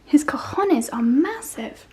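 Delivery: cheeky slow whisper; naughty whispered joke; whispered aside. Real, not acted. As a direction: lean in and whisper it slowly. Cheeky aside about a ram.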